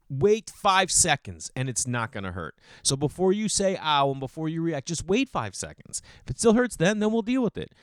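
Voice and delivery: lightly voiced patient dad lecture; lecturing dad. Dad telling his kids to wait before reacting, light lecture. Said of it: "I'm like".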